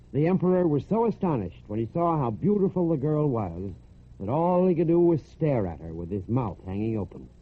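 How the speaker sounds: ordinary delivery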